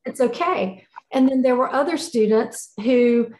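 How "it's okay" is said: gentle reassurance. Retold or imitated. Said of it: "she counseled him through".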